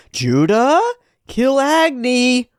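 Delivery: high commanding yell; commanding shout. Acted. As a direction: bark the order from above. Ice Witch commanding.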